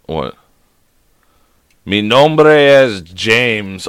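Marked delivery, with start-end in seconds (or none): 1.8-3.9 very slow, laboured Spanish accent; put-on Spanish. Shown as a demonstration. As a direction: sound out Spanish carefully, syllable by syllable. Trying Spanish aloud to phone assistant.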